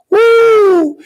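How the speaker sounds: high rising whoop of joy; excited whoop. Retold or imitated. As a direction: cheer it out like a thrilled kid. Thrilled at varsity uniform.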